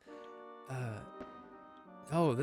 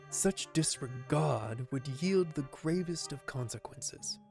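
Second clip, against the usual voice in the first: gravelly voice. Acted. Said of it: "Gravelly voice got me".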